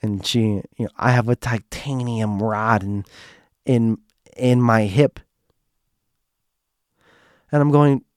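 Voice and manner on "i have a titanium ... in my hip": halting impression at the usual pitch; Joanne. Narrator demonstrates Joanne explaining her hip, lightly imitated. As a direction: lightly put on her voice, pausing between phrases. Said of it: "this is my impression of her".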